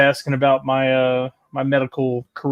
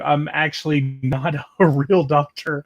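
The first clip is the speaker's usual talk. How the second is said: slow admission broken by a laugh; slower than usual. Real, not acted. Admitting to chat he is no doctor, laughing. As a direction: let a chuckle slip mid-sentence. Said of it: "I don't know why I'm laughing".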